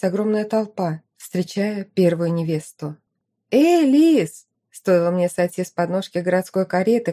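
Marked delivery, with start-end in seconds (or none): 3.5-4.5 high, loud call across the crowd; shouting. A narrator's reading. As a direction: yell it at the top of your lungs. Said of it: "подруга закричала во всё горло".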